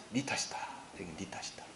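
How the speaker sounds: hushed whisper of blame. Shown as a demonstration. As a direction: breathe it like a secret accusation. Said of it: "whispered blame".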